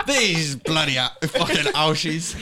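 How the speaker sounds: lightly voiced Irish grouch, slowed; mock Irish grumble. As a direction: grumble like a put-upon Irishman.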